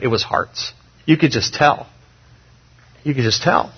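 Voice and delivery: breathy hushed whisper; whispered aside. Real, not acted. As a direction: drop to a whisper to bring it home. Preacher dropping to an intimate aside.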